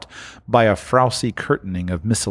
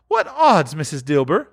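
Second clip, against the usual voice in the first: defiant, insistent; 7 semitones higher than usual. Acted. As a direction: press her harder. Woman presses louder.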